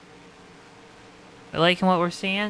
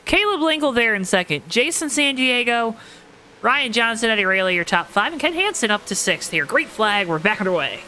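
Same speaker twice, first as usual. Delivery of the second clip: upbeat play-by-play call; race commentator; 3 semitones higher than usual. Acted. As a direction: call the restart like a racing announcer.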